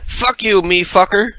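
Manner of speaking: squeaky mocking echo; mocking mimicry. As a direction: parrot the curse in a silly high voice. Mocking the woman's curse.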